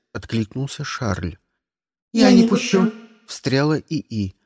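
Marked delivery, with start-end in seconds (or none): 2.1-4.4 high, louder smug AI. Acted. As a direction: speak as a cocky ship AI. (голос самоуверенного ИИ)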